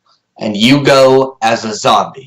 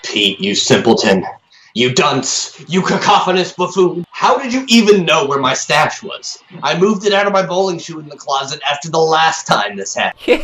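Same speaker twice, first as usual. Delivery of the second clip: exasperated; 5 semitones higher than usual. Acted. Exasperated insults at friend.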